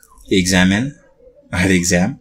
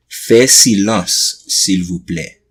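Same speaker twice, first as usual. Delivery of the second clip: nice teacher request; much slower than usual. Retold or imitated. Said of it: "that's if he's being nice".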